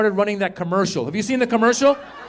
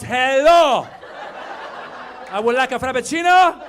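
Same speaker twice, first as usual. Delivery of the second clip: giddy customer; 5 semitones higher than usual. Acted. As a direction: call out the order, pitched up and brash. Acts invincible customer at Starbucks.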